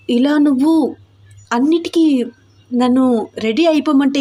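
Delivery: lightly voiced anxious young wife; a hint of panicky reproach; flustered heroine. Heroine's anxious protest to husband.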